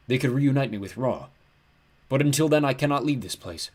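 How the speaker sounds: big, mournful ram-god lament; like a huge lost sheep; horribly depressed. A narrator's reading. Ram god abandoned at the gates, depressed. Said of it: "He sounded horribly depressed".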